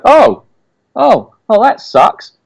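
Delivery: high squealing dismay; dismayed shriek. Pretend. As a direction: shriek it in mock horror. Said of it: "you just go".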